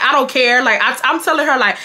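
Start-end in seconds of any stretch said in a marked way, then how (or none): 0.0-0.6 retold, mildly emphatic brush-off; dismissive retort. Speaker telling her friend she doesn't care, dismissive. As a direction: brush it off with raised pitch.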